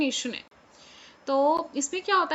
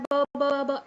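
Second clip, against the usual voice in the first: stuttered sound; much slower than usual. Shown as a demonstration. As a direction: repeat ब, ब, ब as a stammer. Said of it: "बार बार words को repeat कर रहा है". (ब, ब, ब हकलाते हुए)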